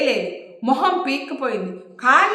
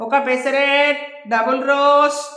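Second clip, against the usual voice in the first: waiter calling out; 3 semitones higher, slower than usual. Acted. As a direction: sing out the order slowly like a busy waiter. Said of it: "గట్టిగా అరిచాడు".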